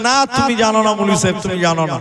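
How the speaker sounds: mildly loud, quick accusation; accusing. Retold or imitated. Boy telling the cleric he knows nothing, mildly accusing. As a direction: push the denial at him, falling at the end. Boy finally challenges the preacher.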